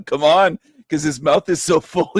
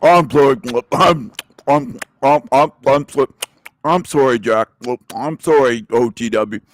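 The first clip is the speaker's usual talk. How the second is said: halting mumble through pretend food; mock talking with stuffed cheeks; mouth-full Tarek impression; 3 semitones lower than usual. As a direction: chew and stammer out apologies. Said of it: "doing that impression of Tarek while he's eating".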